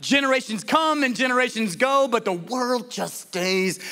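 weary frustration, trailing down on the last phrase; frustrated Solomon. Acted. Preacher reciting Solomon's complaint to the congregation, frustrated. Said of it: "Can you hear the frustration in Solomon's voice?".

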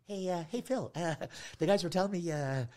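halting, uneasy promoter voice; awkward hesitation. Retold or imitated. Promoter asking the upset comic not to perform, awkwardly hesitant. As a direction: feel your way to bad news, pausing on uh.

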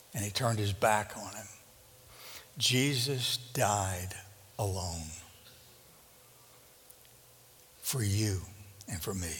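low, soft, slowing to a near hush; grave, quiet sermon moment; hushed and solemn. Real, not acted. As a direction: let the voice sink with the weight of it. Solemn climax of crucifixion story.

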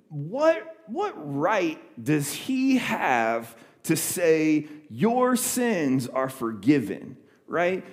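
indignant teacher. Retold or imitated. Teachers of the law angry.

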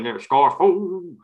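high, loud West Country sing-song; West Country accent. Retold or imitated. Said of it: "in a weird West Country accent".

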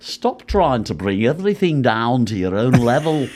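lightly voiced scolding musician, slowing at the end; a hint of a prim, scolding musician; impression of a singer. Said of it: "I can do a better George than Ringo".

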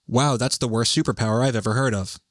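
dry, even-pitched quoted retort; deadpan. Acted. Second bystander in the dream caps the joke, deadpan. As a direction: cap the joke in an understated deadpan. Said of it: "someone else deadpans".

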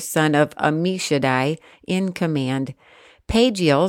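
measured, even Bible reading voice; scripture reading. Acted. Reading Numbers aloud to her listener, measured scripture reading. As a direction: read the passage steadily aloud.

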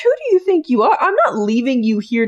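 high, offended excuse me; mock outrage at a character; indignant retort. Fan talking back to Dean, high and indignant. Indignant reply to Dean's quote.

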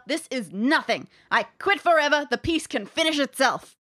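frustrated artist. Acted. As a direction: rant like a furious painter. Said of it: "Just do it in English".

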